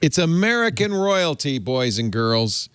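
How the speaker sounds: mock announcement. Real, not acted. Host presenting American royalty to listeners, mock announcer. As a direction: proclaim it playfully, dropping pitch and slowing.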